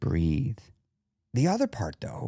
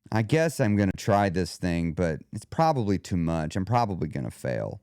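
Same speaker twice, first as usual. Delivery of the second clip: low, defeated self-talk, hammed up; assuming failure; 6 semitones lower than usual. Coach showing disempowering language, over-the-top defeatism. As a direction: sink lower, as if already giving up. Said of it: "speak of yourself from a place of assuming you're gonna fail".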